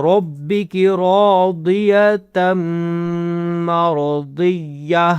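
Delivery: very slow, ending مرضیہ on ہ; slow recitation with a final ہ sound; stop on ha. Shown as a demonstration. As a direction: draw out راضیۃ مرضیہ and close on ہ. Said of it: "ہا کی آواز نکالنی ہے".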